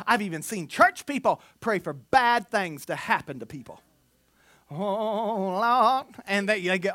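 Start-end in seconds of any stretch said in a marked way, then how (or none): 4.7-6.1 mock pious prayer voice; a hammed-up churchy "Oh, Lord"; religious voice. Imitating a pious church member's prayer voice. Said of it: "this is my religious voice".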